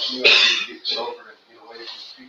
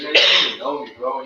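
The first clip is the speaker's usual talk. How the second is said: retold mad retort; 5 dB louder than usual. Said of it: "And I was all mad".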